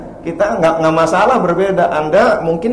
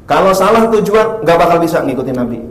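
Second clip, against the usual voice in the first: louder rising exhortation; preaching at force; 4 semitones higher, 5 dB louder than usual. Real, not acted. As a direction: hammer the conclusion. Closing exhortation. (seruan khotbah yang keras)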